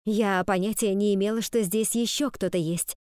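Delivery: ordinary delivery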